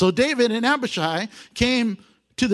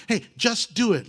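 egging on; 4 semitones higher than usual. Retold or imitated. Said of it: "like the Nike commercial".

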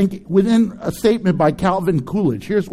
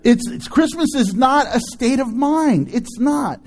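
emphatic shout; 4 semitones higher than usual. Real, not acted. Emphatic rebuttal.

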